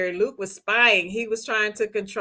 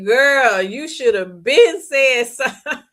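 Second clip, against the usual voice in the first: laughing scold; 3 semitones higher, 6 dB louder, slower than usual. Real, not acted. Host scolding Jamie on the show, loud and laughing. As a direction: scold her through laughter.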